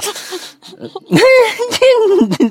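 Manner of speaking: real high-pitched helpless laugh; high giggling fit. Real, not acted. Storyteller cracks up at their own silly shout, high giggling fit.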